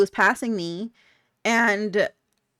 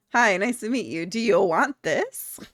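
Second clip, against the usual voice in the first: flirty come-on. Retold or imitated. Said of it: "I was very much like".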